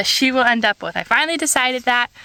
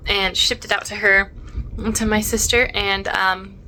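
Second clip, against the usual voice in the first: talking around a mint; mouth full; 2 semitones lower than usual. Real, not acted. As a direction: mint in the mouth, slightly muffled. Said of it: "sorry, I have a mint in my mouth".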